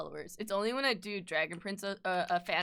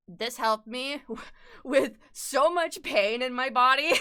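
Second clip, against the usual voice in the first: laughing; 3 semitones higher, 6 dB louder than usual. Real, not acted. Laughing while describing pain relief.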